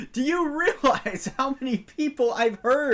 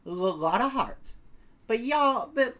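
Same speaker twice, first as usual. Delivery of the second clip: put-on Lotta Hart, Southern accent. Photographer introducing herself to visitors, friendly Southern accent. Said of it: "you're better with a Southern accent than me".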